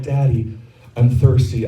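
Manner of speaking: imitating an innocent child, understated; gentle little request, lightly acted; sweet and innocent. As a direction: ask sweetly, without any push. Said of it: "it started off sweet and innocent".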